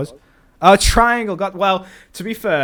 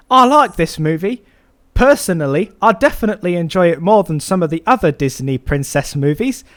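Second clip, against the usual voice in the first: Jacob voice; 2 semitones higher, 5 dB louder than usual. Pretend. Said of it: "let's ask Jacob".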